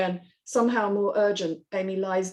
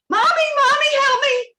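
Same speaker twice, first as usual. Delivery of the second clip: put-on high, loud child's cry over the wind; a scared little girl shouting for her mother; child yelling for mommy; 8 dB louder than usual. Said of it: "She yells".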